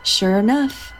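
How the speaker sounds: storytelling voice, steady and unhurried; story narration. A narrator's reading. Host reading the boo hag tale aloud, storytelling voice. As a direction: tell the folk tale to the listeners.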